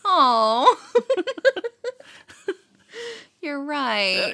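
real laughter at a joke; laughing. Real, not acted. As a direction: burst out laughing.

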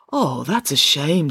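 slow, deflated regret; disappointed. Acted. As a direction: let it sink, mildly crestfallen. Parker slumps, disappointed.

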